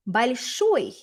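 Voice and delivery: "большой" with the weight on its last syllable; final-syllable stress. Shown as a demonstration. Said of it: "notice the stress is on the final syllable".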